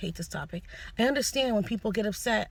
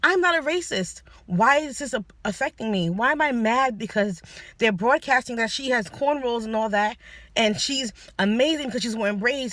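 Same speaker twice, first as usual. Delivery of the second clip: agitated inner voice; 4 semitones higher than usual. Retold or imitated. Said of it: "I'm like".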